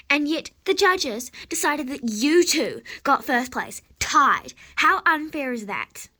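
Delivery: loud, outraged complaint; indignant protest. Acted. Sore loser protests the tied first place, indignant and loud. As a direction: protest loudly at the injustice. Angry horse protests the judging.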